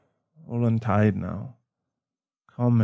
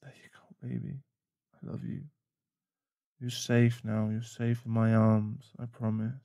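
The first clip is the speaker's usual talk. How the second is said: tender whisper; 4 dB quieter than usual. Acted. Comforting girlfriend in his arms.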